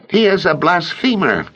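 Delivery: high, pressed accusation; mild shout. A narrator's reading. Azariah denouncing Jesus to the council, a mild high shout. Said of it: "Azariah shouted".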